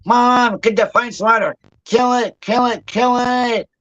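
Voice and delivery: high-pitched mock panic, calling for mom; scared. Sister spots a spider and calls Mom, scared. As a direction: imitate a frightened sister, pitch jumping up, urgent. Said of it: "She got so scared".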